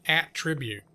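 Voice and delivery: 'Attribute' with the stress first, AT-ri-byute; corrected attribute. Shown as a demonstration. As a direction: hit the opening AT of 'Attribute'. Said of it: "how should I say it?".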